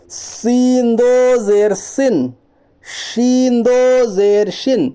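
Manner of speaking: drawn-out, level chant; measured Quran-primer drill, slowly; slow spelling recitation. Shown as a demonstration. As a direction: stretch each long vowel evenly. Drills the letters in recitation style.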